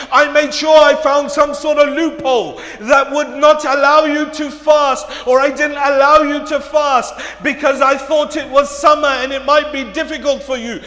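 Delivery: loud, driving sermon as a pleading parent; dramatic pulpit retelling; impassioned preaching. Acted. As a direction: pile up the parent's appeal forcefully. Preaches at full force as pleading parent.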